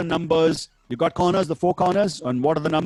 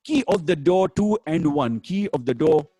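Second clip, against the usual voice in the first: bingo caller=1; 3 semitones lower than usual. Acted. Bingo number calls.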